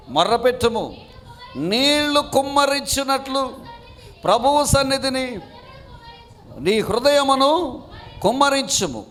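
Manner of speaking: slow, measured Bible reading with long pauses; solemn scripture reading. Acted. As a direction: read each phrase slowly like a sacred text. Reads Lamentations aloud. (నెమ్మదిగా, గంభీరంగా వచనాలు చదవడం)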